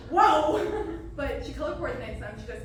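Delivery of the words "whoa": loud high laugh then a whoa; real helpless laughter; laughing hard. Real, not acted. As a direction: lose it completely, then shout whoa. Cracking up.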